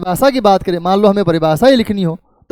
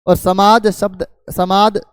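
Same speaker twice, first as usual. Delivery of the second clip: slow; slower than usual. Shown as a demonstration. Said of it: "उसका sound एक साथ नहीं निकला".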